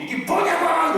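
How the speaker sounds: high, loud demanding shout; childish yell. Retold or imitated. Child yelling demands at parents, loud high shout. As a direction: shout like a kid throwing a fit. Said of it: "이러지 말고".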